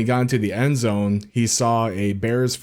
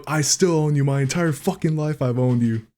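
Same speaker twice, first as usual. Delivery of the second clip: mild mock yell, pitched up; higher-pitched, half-hearted shouted taunt; retold scream; 5 semitones higher than usual. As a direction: imitate a taunting yell at the crowd. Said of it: "he screams back into the".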